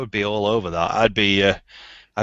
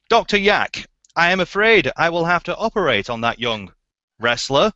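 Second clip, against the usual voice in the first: soap opera line; 4 semitones higher than usual. Acted. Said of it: "this one's a bit of role play".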